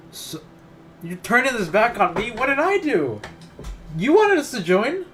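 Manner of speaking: high, loud stunned yelp; outraged disbelief. Real, not acted. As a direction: squeal it in shock. Indignant reaction to Sayori's accusation.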